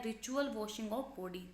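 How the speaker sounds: ritual washing of body said very slowly; slow explanation. Shown as a demonstration. Teacher defining the word, slowly and clearly. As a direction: spell out the meaning word by word. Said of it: "उसको भी हम एब्यूलेशन कह सकते हैं".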